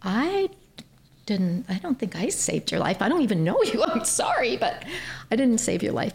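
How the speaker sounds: high, laughing disbelief; baffled protest. Retold or imitated. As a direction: brush it off with an awkward laugh. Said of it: "And I said".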